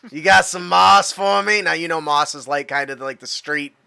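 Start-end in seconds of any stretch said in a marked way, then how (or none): 0.1-1.6 stoner request, a touch more forceful. Acted. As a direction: repeat it clearly as the stoner. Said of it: "I gotta put on my stoner voice".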